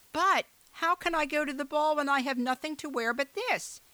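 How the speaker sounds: put-on high, pleading girl voice; young girl. A narrator's reading. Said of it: "said Cinderella".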